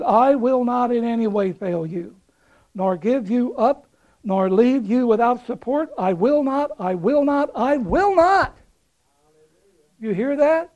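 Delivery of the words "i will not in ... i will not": rising intensity. Acted. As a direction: build each I will not to a peak. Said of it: "the Amplified puts it three times to get intensity".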